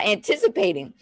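ordinary delivery

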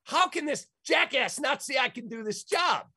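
frustrated cry of disbelief; nearly in tears. Retold or imitated. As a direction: blurt it out, close to tears and fed up. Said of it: "I'm nearly in tears going".

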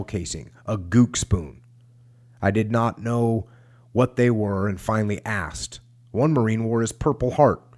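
measured, deliberate book-reading voice; war memoir read aloud; memoir narration. A narrator's reading. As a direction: read it out, lingering over each listed detail.

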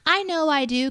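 put-on high, pinched child voice; kid's voice. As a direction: play a smug little kid. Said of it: "And the kid says".

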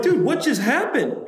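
high and laughing through it; laughing disbelief. Retold or imitated. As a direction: laugh out the question. Clay stunned after losing.

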